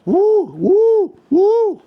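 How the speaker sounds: rising, high, loud whoops of delight; excited whoops. Real, not acted. Toy reviewer thrilled at the figure's gear, excited high whoops. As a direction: whoop with real glee as the package opens.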